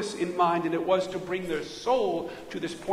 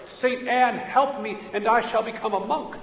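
raised, louder plea, mildly acted fear; retold cry of terror; 5 semitones higher, 3 dB louder than usual. Preacher voicing Luther's vow in a thunderstorm, mock-terrified cry. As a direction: imitate a frightened man crying out for help. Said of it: "he cried out in terror".

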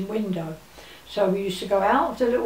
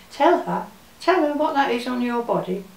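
stern command; 4 semitones higher than usual. Retold or imitated. Missus Weaver telling the girl to explain, lightly voiced stern order. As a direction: order the child to own up.

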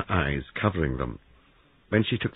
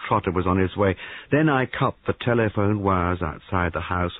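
put-on gloating young man; 3 semitones higher, 3 dB louder than usual. Young man revealing he's no policeman, gloating. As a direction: reveal the trick with relish.

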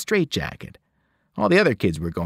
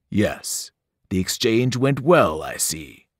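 cold evil voice; 2 semitones lower, slower than usual. Acted. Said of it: "voice changed until it was cold and evil".

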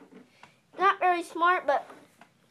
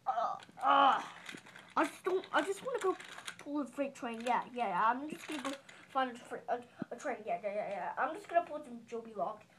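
character voice; 3 semitones lower, 5 dB quieter, faster than usual. Pretend. Voicing a toy train character.

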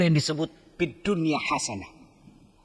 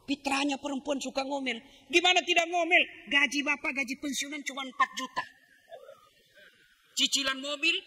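hushed, higher confiding tone; confiding aside; 8 semitones higher, 9 dB quieter than usual. Acted. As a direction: lean in and confide to the men. Soft confiding aside to audience. (suara pelan berbisik seperti curhat kepada bapak-bapak)

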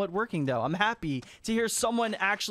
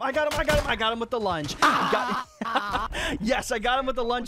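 triumphant; 3 semitones higher than usual. Real, not acted. Streamer celebrating a lunge kill, triumphant yelling. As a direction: crow over the kill.

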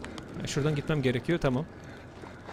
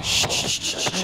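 soft, unvoiced hushing sounds; soothing shush; 4 semitones lower, 6 dB quieter, much slower than usual. Real, not acted. Player hushing a scared companion, soft shush. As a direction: hush them gently to calm them down.

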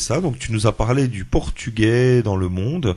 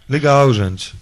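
louder learner's attempt at Brazilian Portuguese; imitated Brazilian accent; 3 semitones higher, 6 dB louder, slower than usual. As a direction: echo the Brazilian phrase, trying it out. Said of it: "Comme ça, je peux dire?".

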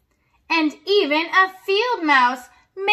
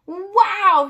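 exclaiming; 5 semitones higher than usual. Acted. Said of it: "he exclaimed".

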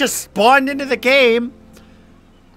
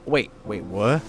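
ordinary talk

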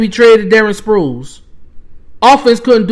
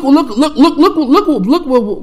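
stammering repeated words through a laugh; exasperated laughing; 6 semitones higher than usual. Real, not acted. Fan laughing in disbelief at the team's decisions. Laughing while sputtering in frustration.

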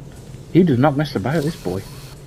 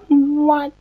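disbelieving what; 14 semitones higher than usual. Real, not acted. Shock after dying.

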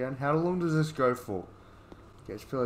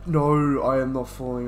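loud refusal; 8 dB louder than usual. Real, not acted. Refuses to fall off again.

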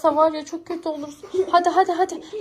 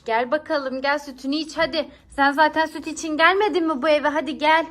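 coaxing. Acted. Coaxing the cat with milk.

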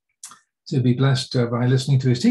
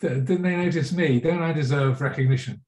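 jealous, irritated; 3 semitones higher than usual. Acted. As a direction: play the overlooked, jealous colleague, easing off toward the end. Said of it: "really actually jealous and irritated".

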